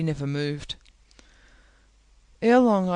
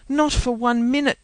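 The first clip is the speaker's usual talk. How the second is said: sharp refusal; 7 semitones higher, 5 dB louder than usual. A narrator's reading. Catherine's refusal.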